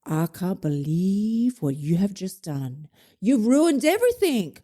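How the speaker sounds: hammed-up horrified scolding; appalled inner voice. Inner critic condemns donut eater, theatrical rising outrage. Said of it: "The voice in your head is like".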